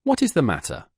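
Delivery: a feigned fright on waking; surprise and affright. Acted. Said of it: "exclaimed in a tone of surprise and affright".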